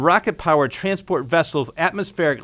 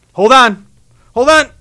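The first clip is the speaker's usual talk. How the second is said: rising urgent shout; straining shout; 10 semitones higher, 14 dB louder than usual. Acted. Straining to fix the seal.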